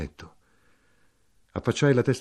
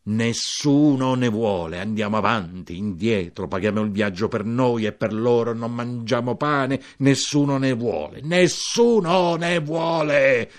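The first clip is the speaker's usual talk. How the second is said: desperate cry; 4 semitones higher, 6 dB louder than usual. Acted. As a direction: shout the complaint as the train whistles. Il siciliano grida dal treno. (grido disperato, più alto e forte)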